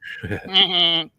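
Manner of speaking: high, lightly imitated nasal laugh; Fran Drescher laugh. Co-hosts recall an actress's accent, mock nasal laugh. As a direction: put on a sitcom star's honking laugh. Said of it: "reminding us of Fran Drescher's accent".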